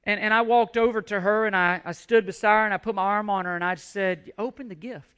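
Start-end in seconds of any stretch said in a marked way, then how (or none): 4.4-5.1 put-on soft, tender urging to a shy girl; gentle coaxing. Pastor softly urging a struggling girl, tender. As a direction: coax her softly to open it.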